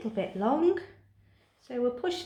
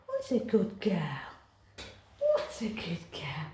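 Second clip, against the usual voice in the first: whispered praise; 3 semitones lower than usual. Real, not acted. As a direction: whisper it gently, soothing the cat. Soft praise while clipping cat.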